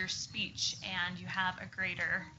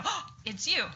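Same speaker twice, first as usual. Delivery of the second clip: raised, pleased surprise; surprised greeting; 7 semitones higher than usual. Shown as a demonstration. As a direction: greet a friend who just showed up. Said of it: "on the count of three".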